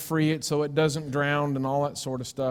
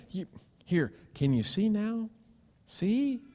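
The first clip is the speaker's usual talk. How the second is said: gentle coaxing; 6 semitones higher, 4 dB quieter than usual. Pretend. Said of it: "God's had to walk over and go".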